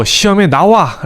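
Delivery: a touch of mock shouting, pitch lifted; mild mock shout. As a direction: call it out like a key word demanding attention. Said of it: "라고 소리치는 핵심어입니다".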